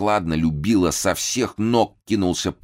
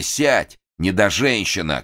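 a mildly raised shout; a madman shouting down a woman, only mildly raised; shouted order; 3 semitones higher than usual. Acted. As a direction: bark the order at her. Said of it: "крикнул он Дуровой".

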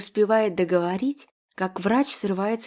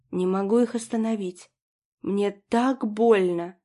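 ordinary delivery

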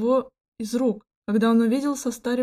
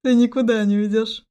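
dark, louder menacing threat; grim; 5 dB louder than usual. Acted. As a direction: threaten darkly. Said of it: "мрачно произнёс Кристиан".

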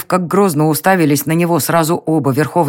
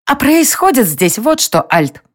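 higher tiny fairy voice; squeaky fairy; 8 semitones higher than usual. A narrator's reading. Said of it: "пропищала фея". (писклявая фея, выше)

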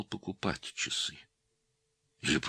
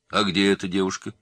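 impatient; 4 semitones higher, 6 dB louder than usual. A narrator's reading. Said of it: "нетерпеливо спросил Мироненко".

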